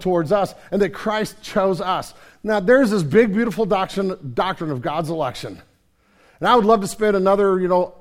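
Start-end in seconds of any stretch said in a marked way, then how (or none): none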